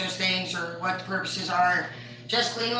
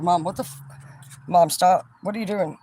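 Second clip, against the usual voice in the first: sudden louder "Mom, stop"; imitated yell at mom; 5 dB louder than usual. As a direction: bark out the stop like a fed-up son. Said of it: "He's like".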